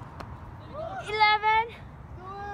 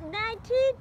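straining count, higher and louder; doing push ups; 6 semitones higher, 3 dB louder than usual. Real, not acted. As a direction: count out each push-up with effort. Counting aloud during push-up challenge.

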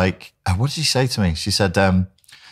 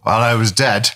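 mock patient; 4 semitones higher than usual.

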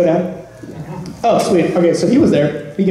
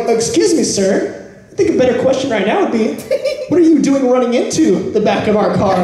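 higher-pitched, mock-polite comeback; smart-aleck retort; 5 semitones higher than usual. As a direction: play the cheeky wise guy. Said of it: "like the smart aleck I am".

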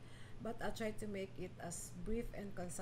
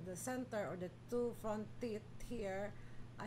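speaking past fingertips at mouth; fingers touching lips; 5 dB quieter than usual. Real, not acted. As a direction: hand at mouth pointing teeth. Seen 1: Fingers touch her lower lip, pointing at front teeth while speaking.

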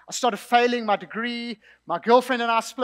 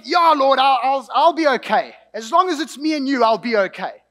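earnest promise; 3 semitones higher, 6 dB louder than usual. Retold or imitated. Eager reply to God, retold.

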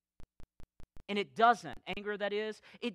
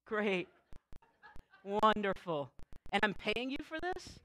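sarcastic. Retold or imitated. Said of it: "And I'll say".

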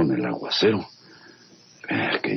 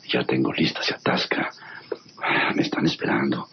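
whispered aside. Acted. Plotting alone in storm.

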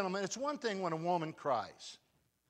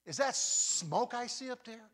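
surprised call; 7 semitones higher, slower than usual. Retold or imitated. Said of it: "he goes".

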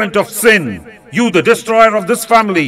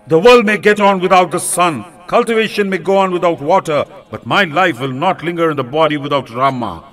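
raised, pleading fury of a wronged king; higher-pitched angry king's outburst, sliding into desperate pleading; wrathful censure; 4 semitones higher than usual. Acted. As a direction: rage at her, then beg at her feet. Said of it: "he broke out into wrathful censure".

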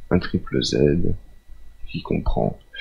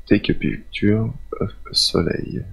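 English read with a strong French accent; real French accent on English words; 3 semitones higher than usual. Real, not acted. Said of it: "désolé pour mon accent anglais pourri".

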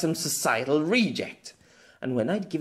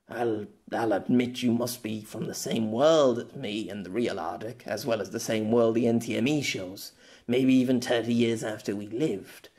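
calmer tone. Acted. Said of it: "his voice back to a calmer tone".

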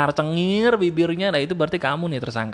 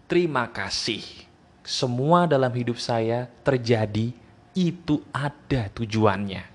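calm gratitude; 5 semitones lower than usual. Retold or imitated. Calm grateful voice.

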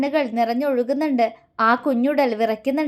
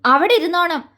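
sharp, raised command; 4 semitones higher, 3 dB louder than usual. Acted. Man ordering frightened girl to stay, raised voice. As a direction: order her to stay put, voice lifted. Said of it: "അവൻ ശബ്ദമുയർത്തി".

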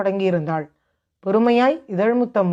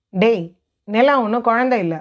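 snapping. Acted. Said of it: "முகில் இவனிடம் எரிந்து விழ".

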